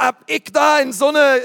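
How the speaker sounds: fränkisch gemeint, aber nach Berlin gerutscht; versehentlich Berliner Akzent. Retold or imitated. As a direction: misslungener Berliner Akzent, etwas höher und lauter. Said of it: "jetzt kriegen wir schon wieder Berliner Akzent". (verrutschter Berliner Akzent)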